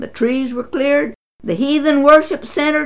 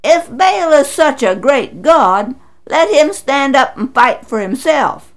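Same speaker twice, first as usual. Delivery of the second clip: crying out; 4 semitones higher, 5 dB louder than usual. Acted. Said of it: "cried Gideon's father".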